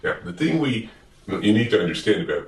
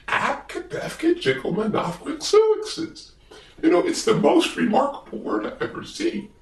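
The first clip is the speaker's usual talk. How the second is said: much higher, wondering bird voice; high Big Bird voice; 9 semitones higher than usual. Acted. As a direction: ask Gordon in a high, eager bird voice. Big Bird sings about the word.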